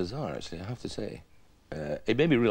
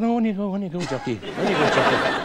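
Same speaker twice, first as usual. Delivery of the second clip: obliging Native American; 5 semitones higher than usual. Retold or imitated. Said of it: "I said".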